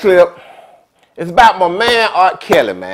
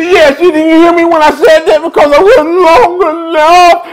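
irritated; 6 semitones higher, 3 dB louder than usual. Retold or imitated. Irritated man repeats himself.

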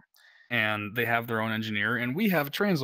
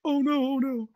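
high, louder mock panic; 4 dB louder than usual. Detainees hearing the alarms, imitated in high mock panic. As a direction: imitate frightened cries. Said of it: "they're like".

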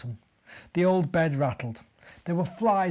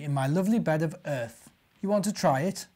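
proud boar; 2 semitones higher than usual. Acted. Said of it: "grunted Wally proudly".

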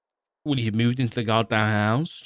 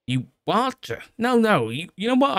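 shocked; 13 semitones higher, 4 dB louder than usual. Acted. Matt shocked at copied key.

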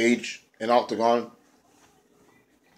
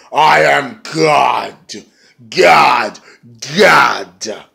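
slow, then shouted God, God; hammed-up wrestler boast building to a yell; mock godlike proclamation; 5 dB louder, much slower than usual. The speaker proclaims himself God.

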